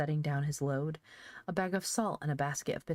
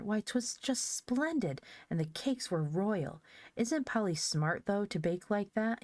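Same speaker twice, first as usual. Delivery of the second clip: admiring; 5 semitones higher, 3 dB louder than usual. Acted. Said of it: "he added admiringly".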